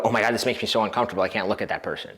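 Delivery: rushed, fading nervous gush; nervous babble. Retold or imitated. A guy uncomfortable holding eye contact, rushed and fading. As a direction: blurt it fast, then shrink away. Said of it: "immediately go".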